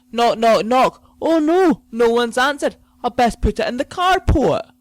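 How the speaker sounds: high, loud mocking whine; mock courier voice. Ranting podcaster imitating the lazy courier, high and loud. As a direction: play the lazy courier pretending to knock.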